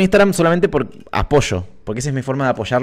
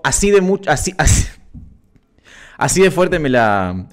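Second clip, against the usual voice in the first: imitating a flustered friend, tripping over false starts; nervous stammering. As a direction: stumble nervously, stretching out the last attempt. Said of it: "muy nervioso porque no sabía qué decir". (imitando a alguien nervioso que titubea)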